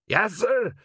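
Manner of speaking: high-pitched, eager reply; troll sergeant. A narrator's reading. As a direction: answer the captain like a keen troll. Troll sergeant answers captain.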